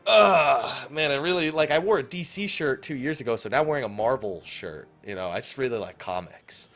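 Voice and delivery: imitating a developer playing innocent; mock coy. Host imitates developer dodging job questions, mock coy. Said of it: "how coy they're being".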